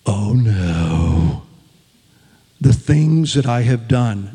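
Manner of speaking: a hint of hammed-up fear; mock terror. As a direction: play it like a panicked sinner. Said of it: "just be terrified".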